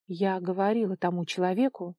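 usual speaking voice

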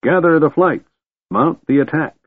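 high, rousing battle call; rally the troops with a trumpeting call; trumpeting cry. A narrator's reading. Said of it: "he trumpeted".

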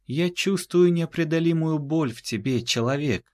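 высокий, чужой, проникновенный; произнеси странно, словно видя насквозь; странный проникновенный голос. Acted. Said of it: "как-то странно произнесла она это". (странно, высоким голосом)

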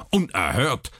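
a hint of a barked single word; mild curt snap; snapped. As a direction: snap it out as one syllable. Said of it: "blaffte er".

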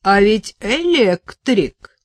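Vitaliy regrets a wasted electrician; mild regretful sigh. Acted. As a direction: lament it like a small loss. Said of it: "тоном человека, который огорчается".

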